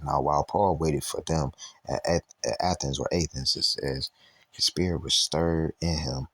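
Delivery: measured, deliberate Bible reading; scripture reading. Acted. Preacher reading a Bible verse to a livestream, scripture reading. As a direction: read the verse out steadily, pausing between phrases.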